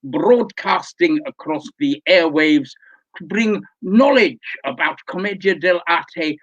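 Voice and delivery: lightly voiced pompous lecturer; pompous learned Doctor. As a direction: address them as a self-important scholar.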